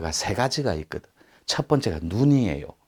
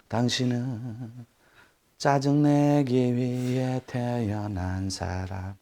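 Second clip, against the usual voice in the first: drawn-out teasing; 4 semitones higher, much slower than usual. Pretend.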